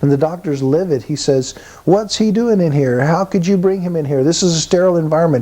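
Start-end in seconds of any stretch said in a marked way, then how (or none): 1.9-5.4 higher, fast mock shouting at the nurse; retold angry yell. Doctor yelling at the nurse over the old man, retold mock yell. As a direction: bark it out like a scared doctor, in a mild retelling. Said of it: "He's screaming at the nurse".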